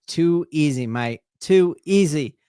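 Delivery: put-on amateur Aussie accent, playfully emphatic; lightly imitated Australian slang delivery. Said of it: "in the best Australian accent I can muster".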